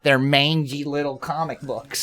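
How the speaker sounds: slow, drawled mock Ohio accent; exaggerated slow Midwestern twang. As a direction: stretch the vowels like an Ohio local. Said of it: "We sound like we're from Ohio".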